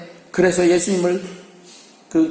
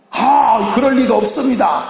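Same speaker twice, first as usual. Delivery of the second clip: indignant protest; 4 semitones higher than usual. Acted. Peter protests his loyalty.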